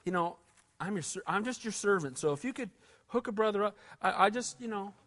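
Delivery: quiet, sheepish mumble; mock groveling David. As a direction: sell David as a sheepish suck-up. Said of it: "goes to the world and says".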